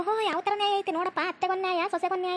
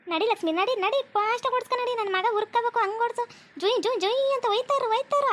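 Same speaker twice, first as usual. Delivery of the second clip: excited urging; 5 semitones higher than usual. Acted. Urging speedy ride excitedly.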